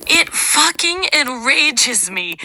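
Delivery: understated enraged outburst; enraged breakup. Acted. AI reading a tearful breakup letter, enraged. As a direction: vent hurt anger at an ex. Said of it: "That is Tearful Breakup Letter".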